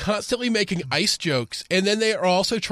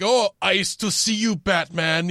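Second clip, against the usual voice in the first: imitating Mr. Freeze; 2 semitones lower than usual. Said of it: "It's like".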